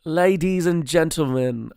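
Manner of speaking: slow announcer-like Kiwi attempt; terrible New Zealand accent. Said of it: "my fucking accent is so terrible".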